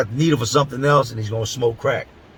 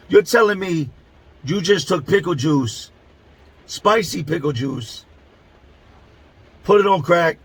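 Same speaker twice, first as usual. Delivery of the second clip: exasperated disbelief; 2 semitones higher than usual. Retold or imitated. To his cellmate, pitched up in outraged disbelief. I'm standing here completely blown.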